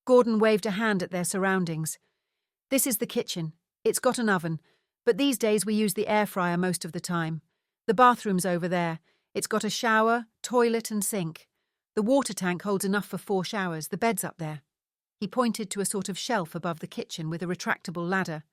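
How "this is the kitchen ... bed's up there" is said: proud Scottish father giving a tour; Scottish accent. Acted. Father tours his son round the camper van, Scottish accent. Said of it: "in his strong Scottish accent".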